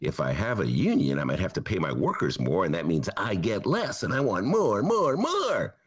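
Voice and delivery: low grasping billionaire; lightly voiced greedy boss. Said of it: "as in".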